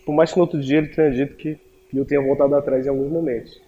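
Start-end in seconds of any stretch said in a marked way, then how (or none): none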